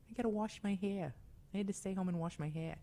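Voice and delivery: put-on hammy Boston accent. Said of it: "I don't know why I'm from Boston".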